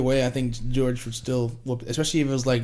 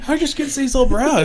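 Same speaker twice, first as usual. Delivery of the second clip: mock Minnesotan; 12 semitones higher, 5 dB louder than usual. Mocking a Minnesotan's question.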